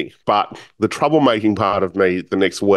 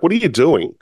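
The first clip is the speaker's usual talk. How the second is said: higher-pitched, mildly puzzled retold questioning; curious questioning; 4 semitones higher than usual. Restaurant owner asking the awkward young visitor, curious. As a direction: imitate someone probing, genuinely curious. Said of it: "like, really curious".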